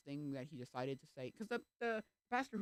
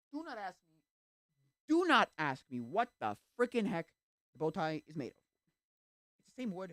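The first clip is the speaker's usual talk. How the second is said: exasperated outburst; 5 semitones higher, 9 dB louder than usual. Real, not acted. Vlogger ranting at imagined askers, loud exasperation. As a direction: blurt it out like you're fed up with the question. Exasperated rant about the bow tie.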